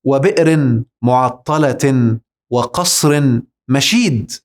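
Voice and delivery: very slow Quranic recitation with the hamza. Shown as a demonstration. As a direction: stretch every word of the verse. Recites a verse slowly. (تلاوة بطيئة جدا)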